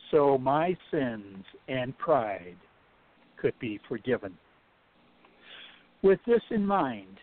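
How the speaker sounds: measured poem recitation with pauses; poem reading. Acted. Reading her Christmas poem aloud to the host, measured recital. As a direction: recite it line by line, from the heart.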